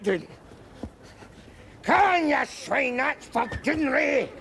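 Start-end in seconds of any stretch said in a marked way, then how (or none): 1.8-4.3 vengeful shout. Acted. Attacking, avenging history.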